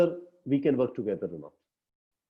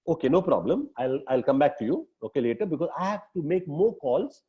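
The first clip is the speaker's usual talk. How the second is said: polite. Shown as a demonstration. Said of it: "very politely tell him".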